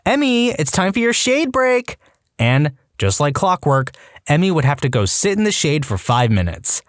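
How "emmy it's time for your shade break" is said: high, sing-song supervising mom; bossy mom voice. Retold or imitated. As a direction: call it out like a fussy mother. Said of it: "she'd blow a whistle and go".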